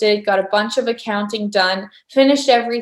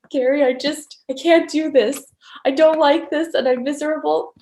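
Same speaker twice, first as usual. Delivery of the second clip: higher-pitched mock complaint; miserable; 5 semitones higher than usual. Retelling her complaint to Gary, mock miserable. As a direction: plead that you can't cope, lightly acted. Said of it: "miserably creating Access Consciousness classes".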